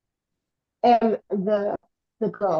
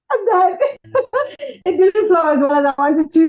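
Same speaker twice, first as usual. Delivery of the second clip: laughing, higher and louder; embarrassed laugh; 9 semitones higher, 8 dB louder than usual. Real, not acted. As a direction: laugh it off, a bit flustered. Laughs off her own pitch.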